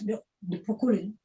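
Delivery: ordinary delivery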